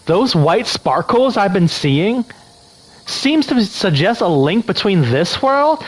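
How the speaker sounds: put-on light Valley Girl read; hint of a Valley Girl. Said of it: "I'm doing a Valley Girl voice".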